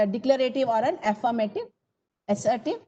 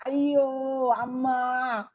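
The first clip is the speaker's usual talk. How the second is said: Indian exclamation; much slower than usual. Shown as a demonstration. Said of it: "if you want very Indian".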